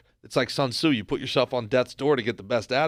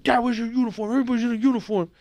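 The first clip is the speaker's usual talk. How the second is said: imitating embarrassed kid; 8 semitones higher, 3 dB louder, faster than usual. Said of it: "I'd be like".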